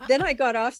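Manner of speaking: laughing in disbelief; giggling through the words. Real, not acted. Retelling the big job news.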